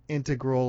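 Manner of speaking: "integral or integral" first as IN-tuh-grul, then in-TEG-rul; both pronunciations. Shown as a demonstration. Contrasting two accepted pronunciations, "integral" stress shifted. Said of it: "So we have two of them".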